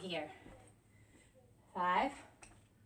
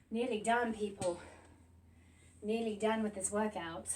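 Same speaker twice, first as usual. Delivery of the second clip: put-on a light British accent; 3 semitones lower, 3 dB quieter than usual. Trainer encouraging viewers near the finish in a light British accent. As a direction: slip into a casual British accent mid-workout. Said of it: "I just switched to British accent".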